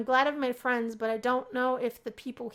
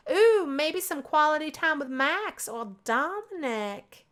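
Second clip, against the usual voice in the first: teasing; 4 semitones higher, 5 dB louder, slower than usual. Acted. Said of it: "I'm just teasing".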